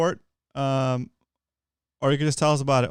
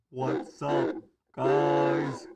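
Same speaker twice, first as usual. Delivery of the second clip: masked voice through a helmet voice changer; a Kylo Ren style changed voice; 4 dB quieter, much slower than usual. Shown as a demonstration. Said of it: "it's got, like, a voice changer".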